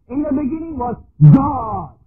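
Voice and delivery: loud, ringing declaration of the verse; booming preacher's cry; shouted proclamation. Real, not acted. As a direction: proclaim it to the whole hall. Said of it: "preaching point, shouted".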